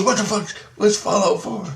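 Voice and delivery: high-pitched puzzled quote; imitated bafflement. Listener who has never heard of the game, baffled.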